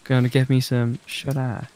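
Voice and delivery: easygoing put-on Southern voice; southern accent. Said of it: "What, my southern accent?".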